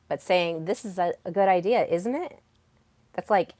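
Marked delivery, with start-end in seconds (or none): 0.7-2.4 tag on a rising, needy "isn't it?"; seeking validation. Shown as a demonstration. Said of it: "I need your external validation".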